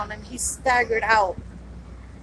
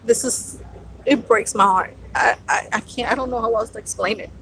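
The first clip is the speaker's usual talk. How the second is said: choked-up, halting words; fighting back tears as she speaks; getting emotional; 3 semitones lower than usual. Real, not acted. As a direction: voice catching with real emotion. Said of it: "I'm getting emotional".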